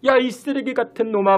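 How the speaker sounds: a retold mother's furious cursing, lightly acted; mock angry scolding. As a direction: scold the lazy son with venom. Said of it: "악에 받쳐서 욕을 하고".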